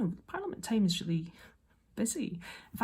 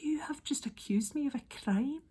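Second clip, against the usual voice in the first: whispered, much higher disbelief; whispered inner outrage; inner thought; 7 semitones higher than usual. Retold or imitated. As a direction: hiss the thought in shock. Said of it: "I thought".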